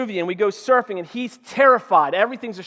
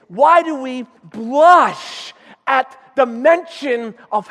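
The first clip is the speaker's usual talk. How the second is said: fiery preaching. Acted. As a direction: press the congregation to act. Preaching to congregation.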